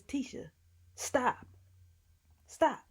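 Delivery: high, abrupt mock exasperation; retold annoyance. Annoyed husband telling his wife to stop, mock exasperated. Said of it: "he's getting annoyed".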